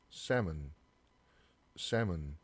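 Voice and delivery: "salmon" with no L sound; "salmon" with the L dropped; silent L. Shown as a demonstration. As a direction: say "salmon" as SAM-un. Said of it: "L 발음이 사라져 있죠".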